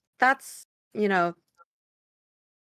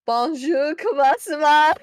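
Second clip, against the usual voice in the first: speaking Celestial; 7 semitones higher, 7 dB louder than usual. Shown as a demonstration. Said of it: "Let me hear it. How does it sound?".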